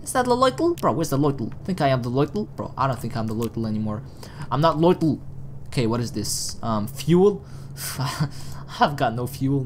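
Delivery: ordinary talk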